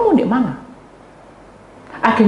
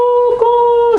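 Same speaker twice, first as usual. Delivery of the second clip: imitated jolts; 6 dB louder than usual. Imitating shaking body.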